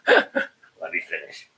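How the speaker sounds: slow, low put-on plea; imitated pleading. Host repeating the impression after laughing, low slow plea. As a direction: drag the plea out low, in mimicry. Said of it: "I goes".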